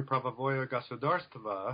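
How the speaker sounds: "pravovое государство" said in Russian with a self-admitted poor accent; Russian term. Real, not acted. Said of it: "forgive my poor, uh, Russian accent".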